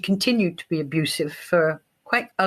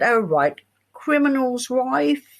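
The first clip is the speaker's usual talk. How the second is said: mock dismissive designer; 5 semitones higher than usual. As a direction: brush it off like a snooty designer. Mimicking dismissive costume designer.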